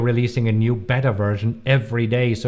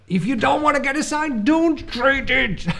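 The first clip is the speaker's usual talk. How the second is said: German accent; 13 semitones higher than usual. Shown as a demonstration. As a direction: drill it in with a heavy German accent. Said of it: "my, my German accent".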